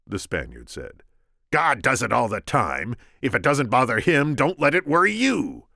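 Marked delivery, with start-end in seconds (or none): 1.5-5.7 high, loud Vizzini voice; squeaky scheming Sicilian. Acted. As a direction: pitch him up, sharp and cocky.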